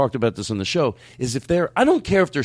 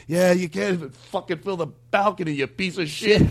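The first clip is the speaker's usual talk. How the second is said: mock band yelling back; 5 semitones higher than usual. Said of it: "they would go".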